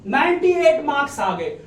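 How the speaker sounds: mildly hammed-up nagging parent; demanding parent. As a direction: play a parent grilling a child over marks. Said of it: "ये वाला attitude छोड़ो".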